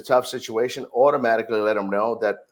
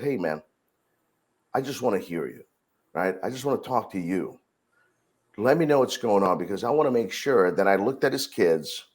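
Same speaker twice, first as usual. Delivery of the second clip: calm reassuring; 4 semitones lower than usual. Retold or imitated. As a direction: talk him down gently, like you truly want to listen. Manager soothing angry park guest.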